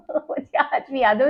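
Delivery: amused, quiet laughter while recalling; laughing at the memory. Real, not acted. Vlogger recalling a childhood incident, laughing. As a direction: laugh softly into the words. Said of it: "मुझे बड़ी हंसी आती है".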